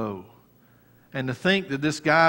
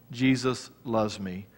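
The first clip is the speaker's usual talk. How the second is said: soft quote; 3 semitones lower, 6 dB quieter, slower than usual. Shown as a demonstration. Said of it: "You write that down".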